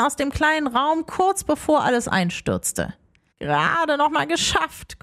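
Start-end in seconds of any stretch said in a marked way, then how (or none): 3.4-5.0 panting. Acted. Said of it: "keuchte Rumpel".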